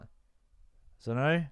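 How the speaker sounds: slow, stretched rising don't know; dopey drawl. Retold or imitated. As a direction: play the dazed kid. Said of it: "he's like".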